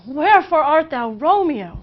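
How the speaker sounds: wherefore art thou Romeo? cried high and loud, WHEREFORE stressed; dramatic Juliet line. Acted. Juliet calling from the balcony, swooning high and loud. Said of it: "moaning on about how Romeo's a Montague".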